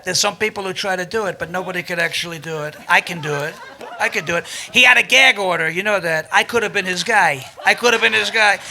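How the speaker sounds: rambling, self-satisfied impression; Donald Trump. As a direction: riff like a bragging politician. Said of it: "You do this Trump voice".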